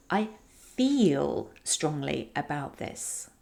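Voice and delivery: warm and slow, with a long drawn-out "feel"; warm, stretched vowels. Shown as a demonstration. Coach giving a point of view, warm with emphasized vowels. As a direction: lean into "feel", lengthening its vowel for warmth. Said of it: "emphasize the word feel and really emphasize the vowels".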